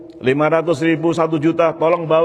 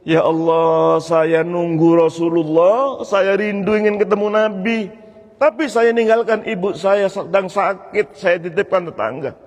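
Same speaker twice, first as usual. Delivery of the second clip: mildly tearful, raised cry to God; tearful plea; 5 semitones higher than usual. Retold or imitated. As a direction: plead with longing, as if imitating someone weeping. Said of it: "Dia sambil nangis".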